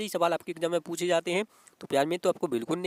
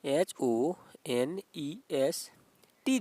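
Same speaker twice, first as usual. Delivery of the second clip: teacher slowly dictating the letters "H O N E S"; slow spelling; 3 semitones lower, much slower than usual. Shown as a demonstration. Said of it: "H, यानी कि".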